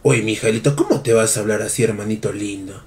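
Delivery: very low, soft wounded pleading; hushed, low-pitched disappointment; hurt reproach. Pretend. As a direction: reproach them quietly, as if hurt. Hurt reply to insulting donation message.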